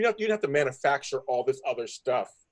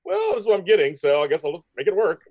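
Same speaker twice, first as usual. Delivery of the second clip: mock resigned actress; 4 semitones higher, 4 dB louder than usual. Voicing actress shrugging at her storyline.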